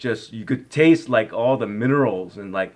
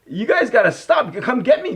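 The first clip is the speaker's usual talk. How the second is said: retold urgent call; 11 semitones higher, 3 dB louder than usual. Calling out from drifting ice.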